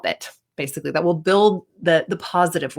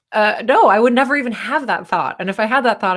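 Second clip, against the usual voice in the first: mock confident dismissal; 3 semitones higher, 3 dB louder than usual. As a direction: wave the idea off, lightly acted. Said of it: "she would laugh and be like".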